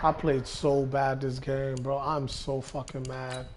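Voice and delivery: deflated after a loss; quiet frustration. Real, not acted. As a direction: mutter the anger under your breath, slowly. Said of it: "I'm just so pissed at myself".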